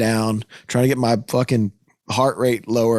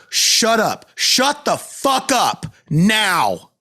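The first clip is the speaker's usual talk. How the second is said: retold yell; 8 semitones higher, much slower than usual. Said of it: "I go".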